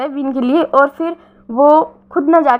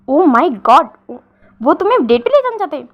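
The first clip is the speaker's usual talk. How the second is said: excited squeal. Retold or imitated. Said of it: "तुम इतनी जोर से क्यों चिल्ला रहे हो?".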